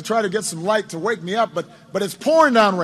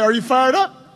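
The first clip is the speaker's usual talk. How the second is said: rallying question; 4 dB louder than usual. Retold or imitated. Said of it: "and I'd say".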